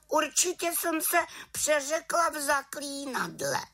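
put-on very high girlish little witch. A narrator's reading. Little witch admitting her slip, very high voice. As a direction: answer sheepishly as a young witch. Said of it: "pravila malá čarodějnice".

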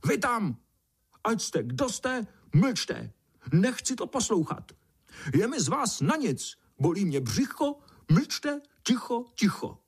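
very high shrieking outburst; shrieking grasshopper. A narrator's reading. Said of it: "kobylka zaječela".

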